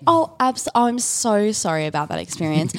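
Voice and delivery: bright, polite call-centre voice; overly sweet service-desk manner; customer service voice. Shown as a demonstration. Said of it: "that's my customer service voice".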